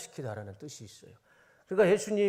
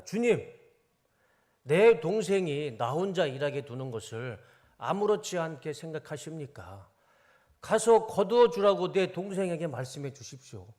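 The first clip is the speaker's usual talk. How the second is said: annoyed complaint; 4 dB louder than usual. Acted. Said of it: "짜증 섞인 말로".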